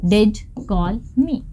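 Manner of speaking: slow, stressed "did" in did call me; emphatic did. Shown as a demonstration. Teacher modelling emphasis to students, slow stressed did. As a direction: drag out did call me with weight. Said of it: "वह मुझे call करता तो था".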